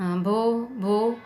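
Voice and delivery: mild stammer on भो, भो; a lightly acted stammer. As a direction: catch on the first sound of भो. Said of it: "she could stammer no further than that".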